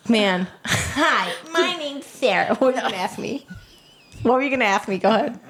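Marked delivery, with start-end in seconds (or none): 0.6-2.5 mock presenter. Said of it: "you always say it in the tone of".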